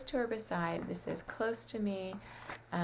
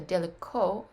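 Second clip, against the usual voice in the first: далеко mit deutlich betontem, lautem End-O; stress on the final O; 7 dB louder than usual. Shown as a demonstration. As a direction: das letzte O in далеко kräftig betonen. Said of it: "it ends on the O because your accent is on the O".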